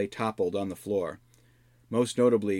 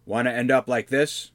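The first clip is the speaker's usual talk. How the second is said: shout; 4 semitones higher, 5 dB louder than usual. Acted. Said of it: "shouted at them".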